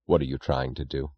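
a low, quiet near-threat; low voice, close to a threat; low, almost threatening. A narrator's reading. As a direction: keep it down, let a threat creep in. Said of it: "his voice low with a sound which was almost a threat".

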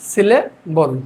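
"সিলেবল" with a gap before the last part; split into syllables. Shown as a demonstration. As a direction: say "সিলেবল" as sile, then bol. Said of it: "কি আছে". ("সিলেবল" একটু ভেঙে)

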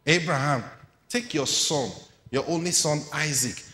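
preacher voices God's command. Acted. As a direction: command Abraham by name. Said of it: "was told".

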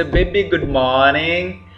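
greeting demo. Shown as a demonstration. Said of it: "you can say".

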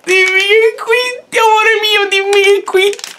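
shouted high plea, pleading. Real, not acted. Begs opponent to quit.

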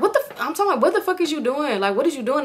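high-pitched indignant demand; retold irritated outburst. Woken up by him tickling her toes, retold high indignation. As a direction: re-enact being rudely woken, pitch jumping up.

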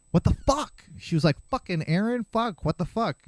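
mock angry mom. Mom's angry disbelief retold.

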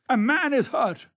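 high, loud alarm call; calling out loudly. A narrator's reading. Sir Geoffrey alerting the line, calling out at the top of his voice. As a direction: raise the alarm at full voice. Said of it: "at the top of his voice".

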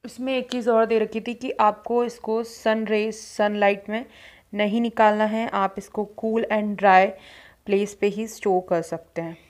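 hands pressing mask on face; speaking under wet face mask; through a sheet mask. Real, not acted. Seen 0: Black sheet mask on face; hands press it near mouth throughout.

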